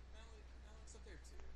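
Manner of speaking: faint, distant echo of the voice; as if played back in a big hall; echoey. Real, not acted. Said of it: "I sound super echoey".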